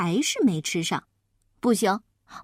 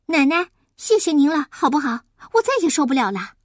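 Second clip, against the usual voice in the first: higher, insistent plea; exasperated pleading child; 4 semitones higher, 4 dB louder, faster than usual. Acted. Child bows begging grandma to stop, exasperated plea. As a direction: beg her to stop, at your wits' end.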